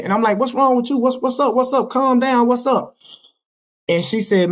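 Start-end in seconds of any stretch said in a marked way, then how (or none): 0.4-3.0 higher-pitched, repeated anxious questions; urgent concern. Retold or imitated. Answering his baby mama's alarming call, urgently concerned. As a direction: retell trying to settle an upset caller. Retold reply to upset caller.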